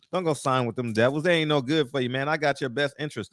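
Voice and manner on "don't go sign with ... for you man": imitating Al. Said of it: "That's how he talks".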